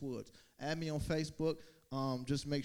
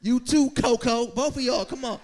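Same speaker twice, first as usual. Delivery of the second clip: calling out; 10 semitones higher, 15 dB louder than usual. Real, not acted. Calling the dogs over.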